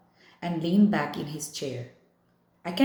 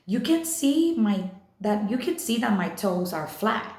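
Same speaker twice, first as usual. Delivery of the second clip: raised, higher-pitched protest that settles down; yelled; 4 semitones higher than usual. Acted. Summer insisting to Augie her toes aren't crossed, yelling. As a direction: push the words out in frustration, not quite a full yell. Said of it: "I yelled".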